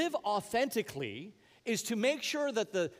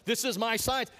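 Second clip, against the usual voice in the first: louder, higher mock quote; 5 semitones higher, 4 dB louder than usual. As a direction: toss it out, mocking the phrase. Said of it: "notice how nobody says".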